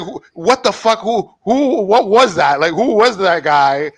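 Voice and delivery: high, confused what the fuck; retold bafflement. Waking up confused in the movie scene, high baffled yelp. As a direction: pitch it high like you just woke dazed. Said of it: "And I'm like".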